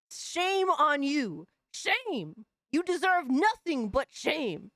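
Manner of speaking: slow, drawn-out mock shaming; mock scolding. Streamer mock-shaming the woman for ashy legs, slow. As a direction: wag a finger at her, slowly.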